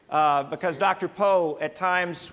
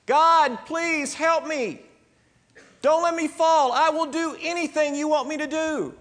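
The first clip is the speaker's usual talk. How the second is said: desperate pleading; 10 semitones higher than usual. Acted. Man dangling off a cliff begging God to save him. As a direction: beg for your life.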